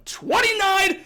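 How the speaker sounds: high-pitched, drawn-out exclamation; excited hype. Real, not acted. Gamer hyping the difficulty rating to viewers, excited. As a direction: announce it like a huge number.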